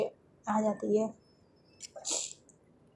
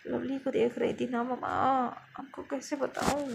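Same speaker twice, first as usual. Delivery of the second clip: soft mumbled protest to mom; quiet, groggy murmuring; sleepy mumbling; 3 semitones higher, 7 dB quieter than usual. Acted. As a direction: mutter it drowsily under your breath. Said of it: "क्या बड़बड़ा रही हो".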